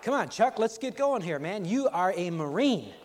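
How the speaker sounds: a fellow recruit urging Chuck on under fire; urging buddy. Retold or imitated. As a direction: spur him on over the gunfire. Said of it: "a buddy comes up ... and says".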